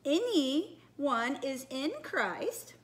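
very slow, stretched princess recital; put-on storybook princess. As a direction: draw it out like a princess. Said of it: "very best princess voice".

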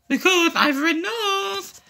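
mock crying. Whines about his red nose.

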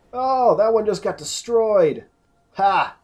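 excited cheer. Real, not acted. Gamer cheering a wraith getting destroyed, excited. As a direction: cheer the kill.

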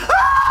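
high laughing scream; sudden shriek with a laugh; panicking gamer. Real, not acted. Monster appears beside him.

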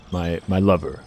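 low, soft, creepy lover; hushed mock-romantic command; mock seduction. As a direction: murmur it low, as a hammy come-on. Resumes mock seduction of Joshua.

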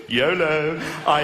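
ordinary delivery

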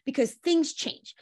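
slow, drawn-out, patient advice; spelling it out slowly to women; slow coaching advice. Retold or imitated. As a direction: ease them into slowing down. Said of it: "I'm like".

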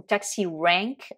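taxi rank said the American way, flatter a in rank; relaxed American taxi rank; American accent. Shown as a demonstration. Teacher demonstrating American accent. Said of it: "avec l'accent américain".

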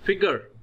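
"फिगर" with schwa before a sounded R; R pronounced. Shown as a demonstration. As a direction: keep the R in "फिगर" after a short schwa. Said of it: "आर को pronounce करेंगे". ("फिगर" में हल्का अ, र के साथ)

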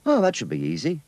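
put-on high, bright kid voice; a boy who can't wait; eager boy voice. Skeets replies eagerly.

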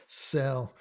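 "Szell" starting with a soft S, Z silent. Shown as a demonstration. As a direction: say "Szell" like "sell". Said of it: "the Z gives the S this soft".

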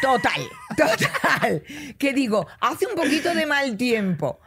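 laughing through the words; giggling while talking. Real, not acted. Laughing while telling the story.

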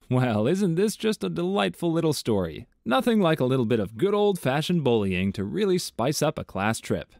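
dry mock delight; sarcastic. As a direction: pretend to enjoy it, dripping irony. Sarcastic reply to bullying story.

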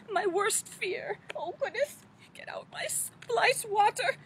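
put-on fussy, fluttery old storybook lady, gently theatrical; Mother Goose voice. Children's librarian as Mother Goose, fluttery storybook voice. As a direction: play a dotty nursery-rhyme granny for children.

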